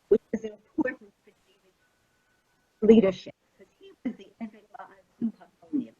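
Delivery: audio cutting out. Real, not acted. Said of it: "You keep cutting out".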